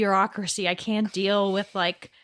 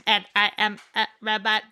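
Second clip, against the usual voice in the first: lightly voiced robot, even and flat in tone; a hint of a reset robot, each word level. Mocking a dazed wife as a robot, a light robot voice. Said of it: "It's not like".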